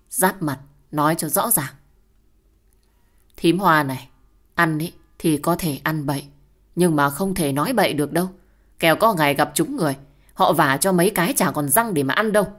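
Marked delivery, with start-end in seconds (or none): 3.4-4.1 loud, cutting address to her sister-in-law; sharp angry call. Acted. Wife confronts sister-in-law angrily. 4.5-12.5 loud, fast threatening scold; angry warning. Acted. Wife confronts sister-in-law angrily.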